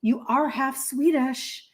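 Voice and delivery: slow, lightly voiced offended mom; imitating mom. Mom reminding her kids they are half Swedish, lightly imitated offense. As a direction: draw it out like a mildly affronted mom. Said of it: "So this is my mom".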